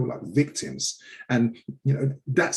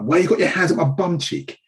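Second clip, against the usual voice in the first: imitating scared boy; 7 semitones higher, 5 dB louder than usual. Elder boy voiced in retold stop.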